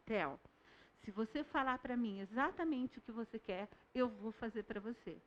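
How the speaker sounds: put-on soft, patient talk to a small child; calm, quiet teacher voice. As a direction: gently explain the deal to a toddler. Teacher crouches, explains calmly to toddler.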